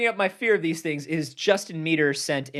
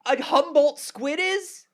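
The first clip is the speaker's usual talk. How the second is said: excited; 11 semitones higher, 4 dB louder than usual. Acted. Scare tactic about squid.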